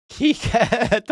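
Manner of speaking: laughing slur. Real, not acted. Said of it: "That's a Spanish name".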